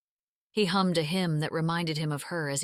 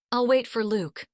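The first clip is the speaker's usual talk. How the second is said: groaning; 5 semitones higher, 6 dB louder than usual. Acted. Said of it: "she groaned out".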